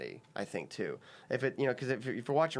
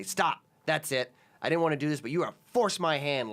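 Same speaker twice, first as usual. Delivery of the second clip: acted quarrel; 5 semitones higher, 4 dB louder than usual. Man retelling his sketch argument with a girlfriend, mock exasperated. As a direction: put your foot down, a little louder and higher.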